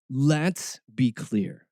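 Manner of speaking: slow and deliberate. Acted. Mock dramatic reading.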